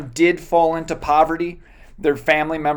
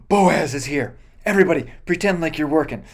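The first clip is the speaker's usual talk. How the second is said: nervous workers; faster than usual. Pretend. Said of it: "It's not like".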